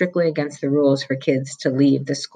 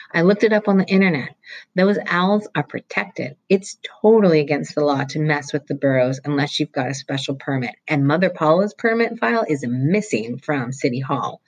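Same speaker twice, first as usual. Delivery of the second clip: put-on excited boy. Roy explaining the owl law to Mullet Fingers, excitedly. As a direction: rattle it off to convince.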